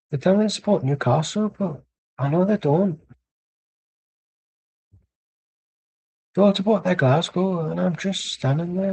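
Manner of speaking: Scottish attempt sliding into Irish; Irish-sounding accent. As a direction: put on a lilting Irish accent. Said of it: "I'm just talking like I'm Irish".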